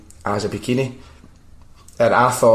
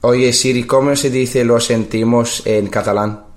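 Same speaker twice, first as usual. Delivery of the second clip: a touch raised, put a question in Spanish; addressing voice assistant. Real, not acted. Asking Siri for a Catalan translation, projected clearly. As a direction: speak up to be understood by a phone.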